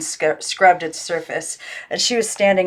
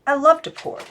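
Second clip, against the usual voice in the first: higher pitched, cheerful doll voice; the girl voicing the boy doll, up high; Timothy John voice; 8 semitones higher than usual. A narrator's reading. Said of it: "she made him answer".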